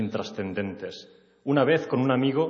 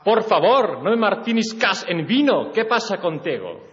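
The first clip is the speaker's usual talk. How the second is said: much higher and louder, pleading; loud desperate plea; 9 semitones higher, 6 dB louder than usual. Acted. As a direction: beg her loudly after the slap. Desperate plea after slap.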